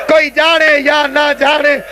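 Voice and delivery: slow, stretched-out grieving verse; mournful lament. Retold or imitated. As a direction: draw out each phrase like an elegy. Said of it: "بی بی فرمیندی ہے".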